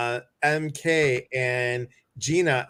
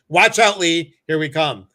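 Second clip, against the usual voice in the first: playful warning; 8 dB louder than usual. Pretend. Playful threat of mischief.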